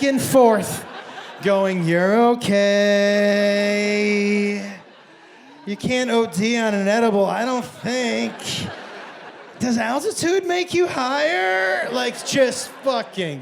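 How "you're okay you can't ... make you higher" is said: slow, stretched-out self-reassurance; anxious self-soothing. Retold or imitated. Edible-taker rocking in the exit row, anxious self-soothing. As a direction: draw words out as if spiraling. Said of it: "trying to talk yourself down off the ledge".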